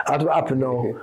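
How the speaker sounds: laughing whisper. Real, not acted. Laughing whisper recounting the aftermath.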